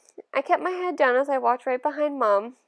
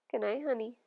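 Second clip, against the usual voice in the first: softer, gentle goodnight to her son; very softly; 5 dB quieter than usual. Acted. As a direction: hush it down to a tender goodnight. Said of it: "she said very softly".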